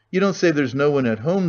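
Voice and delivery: a bright cheerful call up the stairs; cheerful ringing voice. Acted. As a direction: greet him cheerfully as you arrive. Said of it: "the newcomer cried in a cheerful, ringing voice".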